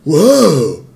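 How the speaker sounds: one stunned exclamation after another, rising in pitch; bewildered bystanders. Retold or imitated. Crowd watching the face change, imitated bewildered reactions. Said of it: "everyone's just standing there going".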